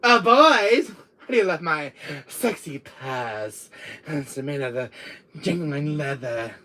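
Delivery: slow, hammed-up girly voice; girly impression. Showing the boys a purse, slow girly impression. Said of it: "Here's my curly impression".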